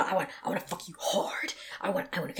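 whispered menacing line; menacing client. Retold or imitated. Burly client leaning into her face, whispered menace. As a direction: breathe it like a looming threat. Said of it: "You know".

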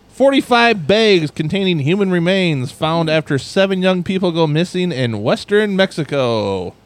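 reading a news story aloud; news headline read. Acted.

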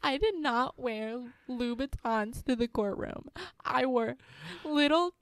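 high put-on disappointed voice; hammed-up high teen; mock upset teen. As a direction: scold through fake tears, high. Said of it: "She goes".

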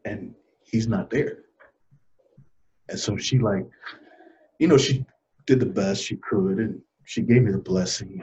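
real, subdued and halting; soft, low, with heavy pauses; getting emotional. Real, not acted. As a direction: hold back grief while recalling a loss. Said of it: "getting a little emotional thinking about it".

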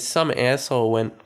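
put-on slipping into an American accent; lightly attempted American accent on "asshole"; American "ass" vowel in "asshole". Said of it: "I'm talking an American accent".

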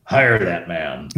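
put-on slow, lightly German-accented growl; a hint of German accent, amused; Manfred's German accent. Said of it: "in this German voice".

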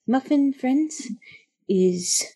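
high, halting little creature; small nervous creature pleading for help; tiny creature voice. Acted. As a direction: squeak it out like a small scared critter.

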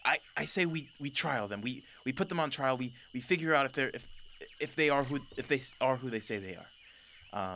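lightly voiced lioness urging caution to her ruler; female lion objecting. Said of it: "the female lion goes".

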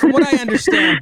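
strained high voice, breath held; holding breath. Real, not acted. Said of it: "I'm holding my breath".

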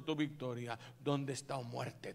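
normal talking voice

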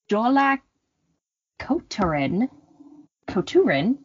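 "Jólakötturinn, Kötturinn" slowly sounded out by a non-speaker; "Jólakötturinn, Kötturinn" read slowly with English-speaker sounds; inaccurate Icelandic pronunciation. Shown as a demonstration. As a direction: have a careful, halting go at "Jólakötturinn, Kötturinn". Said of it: "which is not at all accurate".

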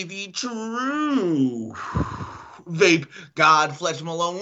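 grand showman announcement; ringmaster. Pretend. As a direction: hype yourself like a ringmaster. Self-introduction as vape god.

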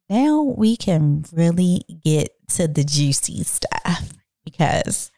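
whispered, slow, conspiratorial; slow secretive whisper to the ladies; teasing whisper. Acted. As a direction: lean in and whisper the juicy part. Teasing "juicy stuff" for listeners.

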